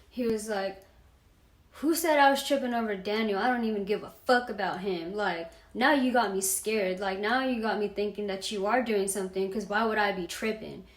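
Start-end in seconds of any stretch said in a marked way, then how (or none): 1.8-10.8 retold angry outburst, fast at first; snapping angrily. Boyfriend snaps at her over Daniel, mildly angry retelling. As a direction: imitate a boyfriend going off, a bit louder. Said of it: "he snapped, he became the Hulk".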